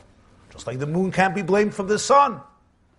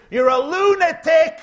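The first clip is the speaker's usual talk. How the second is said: loud, higher, slow shout of scorn; sun scolds moon; 9 semitones higher, 7 dB louder than usual. Acted. Sun yelling at the moon, loud slow scorn. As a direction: yell it at the moon like an insult. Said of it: "look at the moon and say".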